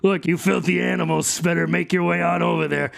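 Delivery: high, grateful little critter; high rat voice. Acted. GM voicing Tony the rat thanking the dog gang, high. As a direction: pitch it up, thanking then shooing them. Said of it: "And he's like".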